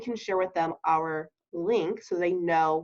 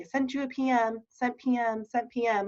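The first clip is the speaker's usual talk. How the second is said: robotic reply; 3 semitones higher than usual. Pretend. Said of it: "we're not gonna be robotic".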